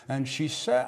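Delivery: usual speaking voice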